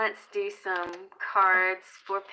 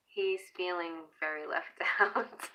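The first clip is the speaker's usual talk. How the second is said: breaking into a laugh mid-line; giggling through the last word. Real, not acted. Repeating herself to viewers, laughing.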